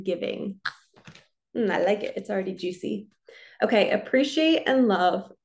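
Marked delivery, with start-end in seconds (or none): 3.6-5.3 slightly winded, breathing heavily. Real, not acted. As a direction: speak while catching your breath. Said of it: "I feel like I'm out of breath".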